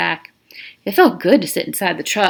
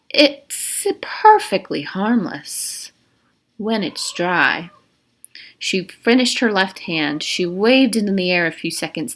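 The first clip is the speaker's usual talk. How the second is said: warden's voice. Acted. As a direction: let each word linger. Warden explains the venom.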